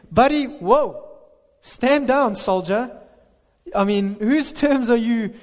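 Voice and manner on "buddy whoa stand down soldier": playful stern command; mock rebuke. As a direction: call him off like a hothead soldier. Preacher mock-rebukes Jonah.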